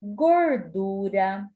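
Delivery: gordura drawn out slowly, the R sounded; slow careful gordura. Shown as a demonstration. Teacher dictating gordura slowly with the R. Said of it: "observe aí".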